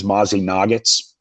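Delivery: Mosin Nagant mangled as MOZZIE NUGGETS; wilfully wrong Mozzie Nuggets; deliberate mispronunciation. Shown as a demonstration. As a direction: say Mozzie Nuggets, butchered on purpose. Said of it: "I do that on purpose to piss 'em off".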